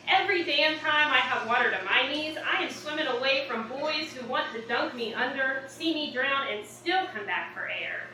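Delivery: defiant spoken-word delivery in measured phrases; poem recital. Acted. Poet defying a preacher in her poem, spoken-word recital. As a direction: recite it with punched openings and falling line ends.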